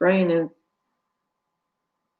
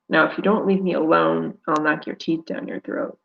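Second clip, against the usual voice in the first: hissed threat. Acted. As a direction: hiss it through the teeth. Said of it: "I hiss".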